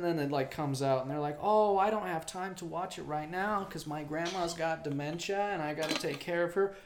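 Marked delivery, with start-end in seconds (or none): 1.4-6.7 high-pitched mock complaining; mocking whine. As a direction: drag it out high, mimicking someone's feeble excuse. Mocking that person's excuse.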